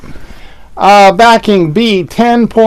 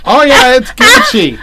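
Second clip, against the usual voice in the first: laughing; 7 semitones higher than usual. Real, not acted. Joking about Gucci name.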